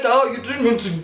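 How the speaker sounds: high, loud accusing comeback; re-enacted angry confrontation, pitched right up; indignant retort. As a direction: throw the apology back in outrage. Acted quarrel, throwing apology back.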